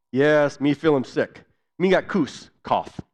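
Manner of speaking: reply like a tired sick patient; a hint of a weary patient; patient answering in Pidgin. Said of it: "share with you a little bit of what that was like".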